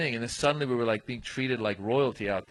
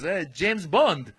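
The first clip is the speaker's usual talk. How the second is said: higher, drawn-out hail; slow, teasing greeting in character; delighted passport officer; 5 semitones higher, 4 dB louder, much slower than usual. Retold or imitated. Passport officer hailing a British traveler, delighted.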